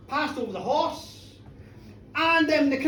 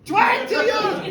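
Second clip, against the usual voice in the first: high, incredulous call; auctioneer's shout; 6 semitones higher, 4 dB louder than usual. Acted. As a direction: shout the bid out to the crowd. Auctioneer repeats audience bid.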